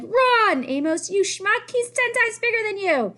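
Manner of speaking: loud, high urgent yell; hammed-up panic shout; retold yell. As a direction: Amos re-enacting his own panicked yell. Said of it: "I was like".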